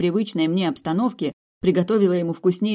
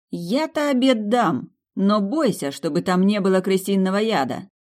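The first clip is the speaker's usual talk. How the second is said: venomous jab; 4 semitones higher, 3 dB louder than usual. Acted. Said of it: "сказала едко".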